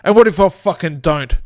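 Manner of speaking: Joey defying the ghost boss; defiant. Acted. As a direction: push back tough.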